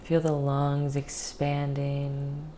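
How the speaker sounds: calm guided meditation voice with long pauses. Real, not acted.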